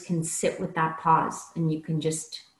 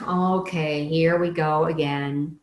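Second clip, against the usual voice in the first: eye-roll sigh. Shown as a demonstration. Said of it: "people who do the eye roll".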